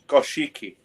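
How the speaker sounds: Goshiki said gosh-EE-kee, every syllable sounded; pronunciation as spelled. Shown as a demonstration. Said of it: "That's how it's spelled".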